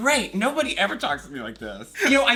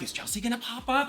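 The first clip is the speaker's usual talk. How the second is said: higher-pitched nervous fan; retold nerves; 8 semitones higher than usual. Fan retelling waiting for Chelsea, mock nervous. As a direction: replay jittery anticipation in a raised voice. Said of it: "and I'm nervous".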